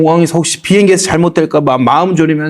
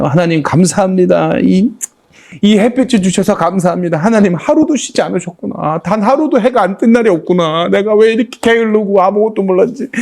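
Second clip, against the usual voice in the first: reliving tearful prayer; 5 semitones higher than usual. Retold or imitated. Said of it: "하면서 막 울기 시작하는 거야".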